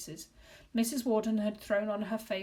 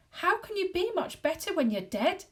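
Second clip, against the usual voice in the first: horrified; 10 semitones higher, 5 dB louder than usual. Acted. Boy horrified at ghost.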